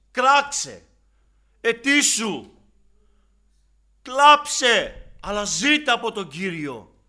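loud, high commands to pray; urgent exhortation. Acted. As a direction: call the people to cry out.

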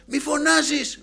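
high, loud imitated telling-off; scolding doctor. Doctor scolding an injured patient for shouting, angry yell. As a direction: berate the patient at the top of your range. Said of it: "Με έβριζε κιόλας".

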